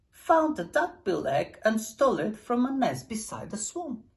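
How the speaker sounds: plain reading voice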